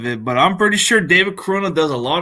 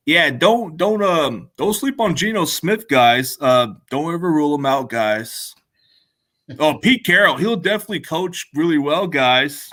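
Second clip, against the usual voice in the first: a light impression of Eddie; imitating Eddie. Doing Eddie for the stream, lightly voiced. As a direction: talk it like Eddie hyping his team. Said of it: "this is how he would sound".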